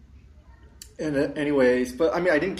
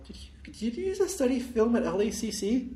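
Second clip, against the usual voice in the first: imitating the girl; 9 semitones higher, 4 dB quieter than usual.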